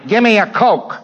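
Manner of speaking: hammed-up loudmouth Yank hailing a waiter; brash American order. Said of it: "if you say".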